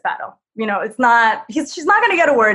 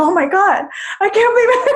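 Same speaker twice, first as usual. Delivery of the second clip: mock disbelief; 9 semitones higher, faster than usual. Reacting to being shoved.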